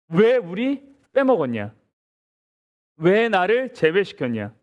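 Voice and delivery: acted protest, mildly indignant; confrontational demand. Preacher voicing Ephraim to Jephthah, mock confrontational demand. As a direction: press each question as a retold grievance. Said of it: "입다한테 와서 또 따지는 거예요".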